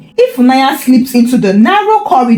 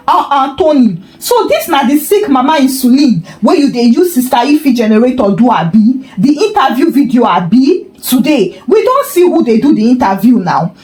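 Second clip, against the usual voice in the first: mocking scolding. Mama Bose shaming Tony publicly.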